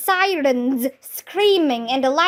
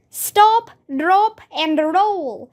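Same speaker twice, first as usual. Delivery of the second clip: shouted; 4 semitones higher, slower than usual. Acted. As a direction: shout the safety rule. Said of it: "shouted Andrea".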